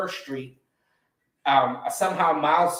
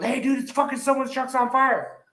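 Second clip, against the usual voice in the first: imitating partygoer; 10 semitones higher than usual. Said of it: "And somebody goes".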